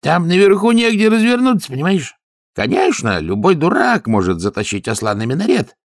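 high, loud, exasperated guard; a high, fussy guard voice; guard's voice. Acted. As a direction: pitch it up like a fed-up guard. Guard explains the donkey problem.

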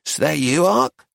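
just-woken question with a high rising end; sleepy, yawning. A narrator's reading. Woman just woken greets Arcady, sleepily. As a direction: ask it as you rub your eyes awake. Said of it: "yawned, rubbed her eyes, and said".

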